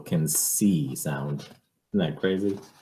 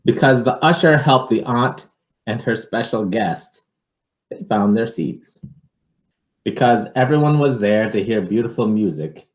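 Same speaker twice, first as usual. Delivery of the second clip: put-on lively read-aloud for children; picture book reading; 6 semitones higher, 7 dB louder than usual. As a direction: read it to a child, with a storyteller's lilt.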